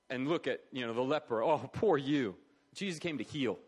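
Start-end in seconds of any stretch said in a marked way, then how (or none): 1.4-2.4 drawn put-on sympathy; mock pity. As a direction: pity the leper, half-acted. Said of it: "didn't come to cry".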